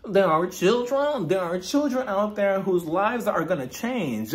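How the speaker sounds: mock British accent, drunken indignation; hammed-up British housewife lecturing the table; Meredith. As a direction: imitate an affected British accent, drawing out key words. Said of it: "with a British accent all of a sudden".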